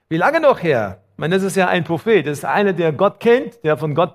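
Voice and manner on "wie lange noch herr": crying out to God. Acted. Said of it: "ich habe ein Problem damit".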